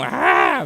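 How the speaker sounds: high, sharp imitated crow scream "ah"; crow's shriek. Shown as a demonstration. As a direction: cry it out shrill like a crow at night. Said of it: "mas assim, bem agudo".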